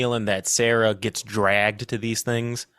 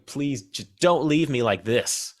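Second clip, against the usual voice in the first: slow, understated plea; mild begging. Acted. Podcaster voicing dying Beth as Juno walks away, restrained begging. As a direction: beg simply, without raising the voice. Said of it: "she's just begging".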